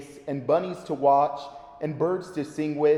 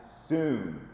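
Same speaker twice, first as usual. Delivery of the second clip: growly; 6 semitones lower, 8 dB quieter than usual. Acted. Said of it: "with a growly chuckle".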